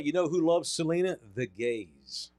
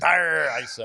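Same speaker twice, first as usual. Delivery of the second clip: Scottish accent; 6 dB louder than usual. Shown as a demonstration. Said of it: "I turn into an Irishman".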